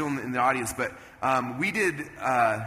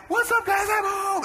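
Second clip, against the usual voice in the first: very high, loud shout; big, exuberant homecoming call; high-energy greeting; 4 dB louder, slower than usual. Retold or imitated. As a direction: burst through the door hollering. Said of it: "I get in state".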